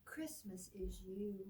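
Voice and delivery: soft unvoiced whisper of the refrain. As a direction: breathe it like a secret.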